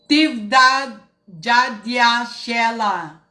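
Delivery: slow, drawn-out name call; announcing name. Acted. Host greeting a foreign viewer, slow name call.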